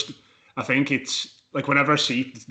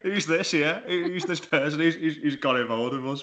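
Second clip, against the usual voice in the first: mock surprise; 6 semitones higher than usual. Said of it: "you're not like".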